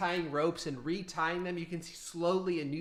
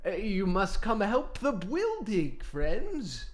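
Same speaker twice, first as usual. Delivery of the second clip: Loxodon voice; 6 semitones higher, 4 dB louder, slower than usual. Acted. Loxodon NPC speaking.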